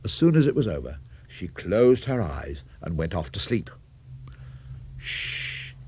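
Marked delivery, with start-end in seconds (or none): 5.0-5.7 hushing whisper. Acted. Farmer hushing near sleeping cow.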